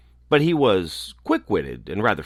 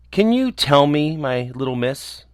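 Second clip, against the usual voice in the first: mildly grand, higher-pitched address; airs and graces; 6 semitones higher than usual. A narrator's reading. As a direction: put on a touch of courtly airs. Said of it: "with all the airs and graces".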